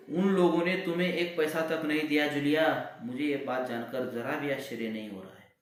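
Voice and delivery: high, loud, shaking with rage; trembling angry voice. Acted. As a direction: quiver with fury. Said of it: "क्रोध के कारण कांपते उत्तेजित स्वर में".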